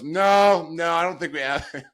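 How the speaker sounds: high, loud nervous protest; alarmed dad. Retold or imitated. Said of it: "And he goes".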